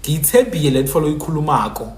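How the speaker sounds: Baphuti-style sample sentence; Baphuti pronunciation. Shown as a demonstration. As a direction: demonstrate how Baphuti speak, y replacing l. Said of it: "Baphuti people will say".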